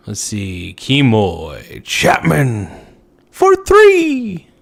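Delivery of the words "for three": much higher and louder, squealed; squeaky. Pretend. Streamer reading chat, a sudden high squeal.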